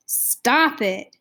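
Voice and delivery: mildly tense, clenched-teeth protest; gasped through clenched teeth. A narrator's reading. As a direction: force it out through a tight jaw. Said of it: "gasped from between clenched teeth".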